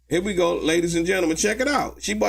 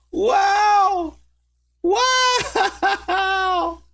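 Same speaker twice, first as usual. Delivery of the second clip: gleeful shout; 12 semitones higher than usual. Real, not acted. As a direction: shout it out in delight. Reacting with glee.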